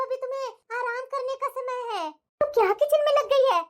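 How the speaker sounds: fussy, loving mother-in-law scolding gently; doting mother-in-law. Acted. Mother-in-law stops her new daughter-in-law making tea, doting. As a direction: coddle the new bride like a fussing mother-in-law.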